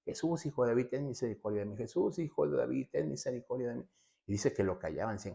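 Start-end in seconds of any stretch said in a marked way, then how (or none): 0.0-3.9 a mild, raised-pitch imitation of crying out; mock cry for help. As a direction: call out higher, a restrained mock shout. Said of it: "empezó a gritar".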